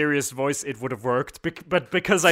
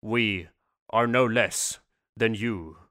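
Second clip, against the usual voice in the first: mock poetry recital; 4 semitones lower than usual. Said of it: "do a poem with me".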